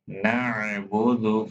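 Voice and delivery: نعبد with ayn from mid-throat; careful ayn. Shown as a demonstration. Teacher showing students the ayn, careful throat sound in نعبد. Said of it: "Don't forget to pronounce عين".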